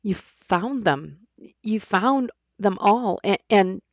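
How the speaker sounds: slow, trembling, close to tears; shaky voice. A narrator's reading. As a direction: voice breaking with relief. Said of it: "With a shaky voice".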